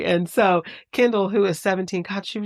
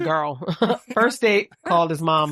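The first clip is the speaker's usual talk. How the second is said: gossipy mock retelling; 3 dB louder than usual. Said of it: "it's funnier to be like".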